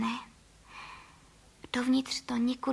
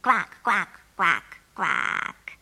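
lower, descending quacks; a duck on the phone, quacking lower; 5 semitones lower, much slower than usual. Acted.

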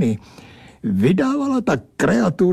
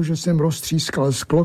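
ordinary delivery

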